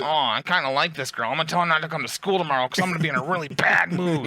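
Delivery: put-on voice, trying to sound nice; hammed-up mock-friendly voice; Metz being nice. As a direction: imitate a creep who thinks he's kind. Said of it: "that would be Metz thinking he's being nice".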